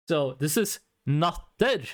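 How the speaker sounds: "natter" okunduğu gibi, sert t ile; "natter" yazıldığı gibi söyle, net iki hece; natter as written. Shown as a demonstration. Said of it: "I'm gonna pronounce it the way it's written".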